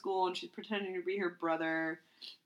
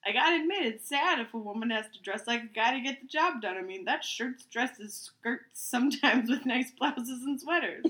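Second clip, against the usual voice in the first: reading aloud; 4 semitones higher than usual. Acted. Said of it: "read it as is".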